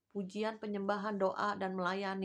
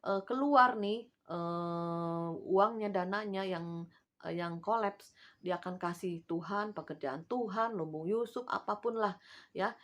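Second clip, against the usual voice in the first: bargaining believer. Retold or imitated. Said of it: "Dimana kalau bilang".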